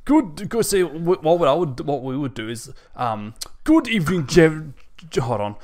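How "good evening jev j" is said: lightly voiced laid-back dude; surfer dude. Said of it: "doing the dude's voice".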